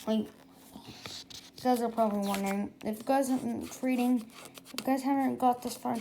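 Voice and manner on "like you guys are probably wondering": hushed aside to listeners; whispered aside. Real, not acted. Reader stepping out of the story to whisper to listeners. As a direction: lean in and whisper to the audience. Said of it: "aside to listeners".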